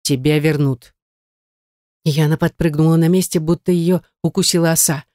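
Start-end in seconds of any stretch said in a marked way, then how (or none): 0.0-0.9 through teeth. A narrator's reading. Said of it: "процедил".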